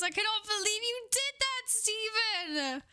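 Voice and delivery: high, stunned cry of disbelief at a big gift. Real, not acted. Streamer to generous viewer, high stunned disbelief. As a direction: gasp it out, overwhelmed.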